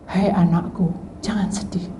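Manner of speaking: low, soft fatherly comfort; tender comfort. Acted. God comforting his sad child, softly low. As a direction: soothe a grieving child.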